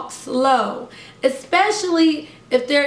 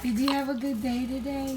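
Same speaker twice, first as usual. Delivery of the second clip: gentle question; 11 dB quieter, faster than usual. Shown as a demonstration.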